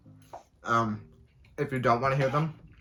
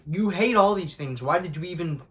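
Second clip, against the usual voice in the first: exasperated self-rebuke; 5 semitones higher, 7 dB louder than usual. Retold or imitated. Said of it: "I'm like".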